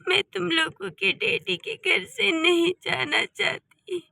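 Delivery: soft, teary plea to her sons; a mother choking up, asking to stay home; tearful mother. Acted. Mother tells her quarrelling sons, teary and soft.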